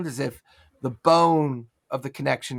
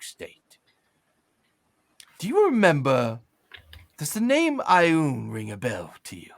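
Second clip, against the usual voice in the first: wistful half-ogre storyteller; 3 semitones lower than usual. Acted. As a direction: drift into a strange memory. Slackjaw tells his story.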